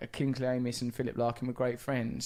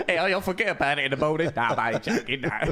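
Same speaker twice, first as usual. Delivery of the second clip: mock chirpy Larkin; 4 dB louder than usual. Playing Larkin cheering up.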